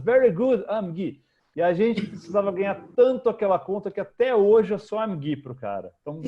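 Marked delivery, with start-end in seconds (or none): 0.0-1.2 higher and louder mock client praise; imitating the client. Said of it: "o cara fez comentários". (imitando o cliente animado, mais agudo e alto)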